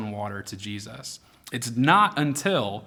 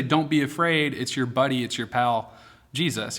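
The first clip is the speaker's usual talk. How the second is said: casual buddy tone. Shown as a demonstration. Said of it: "He doesn't say".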